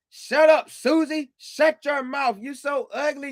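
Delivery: a hint of a nasty bully; lightly voiced mean driver yelling. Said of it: "being mean".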